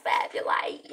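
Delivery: shout. Real, not acted. Shouting fan name.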